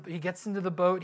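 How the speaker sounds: ordinary talk, nothing marked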